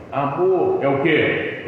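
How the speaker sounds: a wife past the honeymoon, curt; changed, snappier tone. Retold or imitated. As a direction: Amor thrown out curtly, no longer cooing. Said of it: "já mudou o tom de voz".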